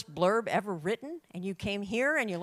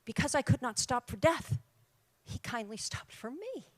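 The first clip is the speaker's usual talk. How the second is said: runs on without stopping, no pauses; breathless reading; 5 semitones higher than usual. Shown as a demonstration. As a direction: read it in one breathless rush, fading at the end. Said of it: "she wrote breathlessly".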